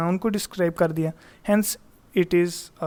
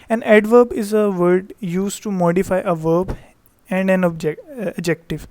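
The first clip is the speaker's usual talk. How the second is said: slow definition read; 4 dB louder, much slower than usual. Shown as a demonstration. Teacher reads definition slowly.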